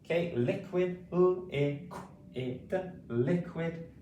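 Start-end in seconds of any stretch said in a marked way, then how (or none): 1.1-2.8 L, I, Q, I, D sound by sound; phonics-style L, I, Q, I, D. Shown as a demonstration. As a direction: segment it with short gaps between sounds. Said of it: "Say it with me".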